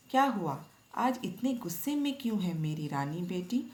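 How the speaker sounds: a lightly voiced mother, affectionate; mild loving mother. Mother comforting upset daughter, mildly affectionate. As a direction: coax her daughter gently, a hint of affection. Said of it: "माँ ने प्यार जताते हुए कहा".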